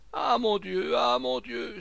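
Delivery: loud, high cry of dread; acted terrified lament; panicked cry. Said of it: "s'écria de nouveau monsieur Rodiguet".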